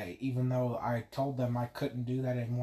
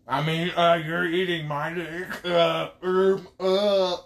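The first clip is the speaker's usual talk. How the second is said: flustered outburst; 6 semitones higher, 8 dB louder, slower than usual. Pretend. Mock flustered correction.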